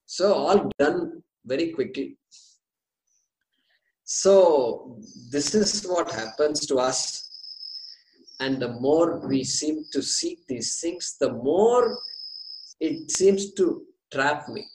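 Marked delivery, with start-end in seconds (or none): 4.0-10.8 whispering. Real, not acted. Teacher drops to a whisper.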